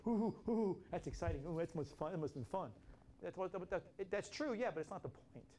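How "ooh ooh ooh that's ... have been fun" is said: playful excited oohing; mock emotional excitement. Preacher mimicking people caught up in emotion, mock excited. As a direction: coo it like you're caught up in the thrill. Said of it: "into the emotion of it all".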